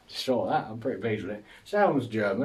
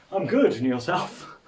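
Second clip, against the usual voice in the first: awkward polite reply; 5 semitones higher, 5 dB louder than usual. Retold or imitated. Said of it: "And like".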